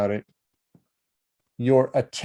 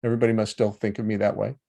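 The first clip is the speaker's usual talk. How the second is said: victim story; 2 semitones lower, faster than usual. Shown as a demonstration. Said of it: "From the victim story".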